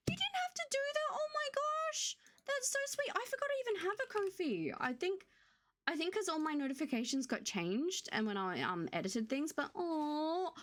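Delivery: high, tearful squeak of surprise; choking up over a gift; teary happy shock. Real, not acted. Streamer touched by a birthday Ko-fi, tearful high voice. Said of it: "I need to have a little cry".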